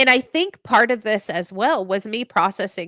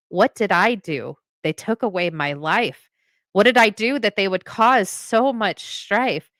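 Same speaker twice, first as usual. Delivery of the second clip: poem recital. Acted. Reciting her own war poem to the podcast host, steady spoken-word delivery. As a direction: recite it like a spoken-word piece, each line weighed.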